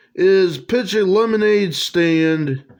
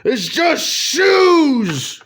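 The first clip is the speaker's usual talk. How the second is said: slow, higher let-down groan; disappointed; 7 semitones higher, much slower than usual. Acted. Roger finding shoes on his line, slow disappointed. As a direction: drag it out in dismay.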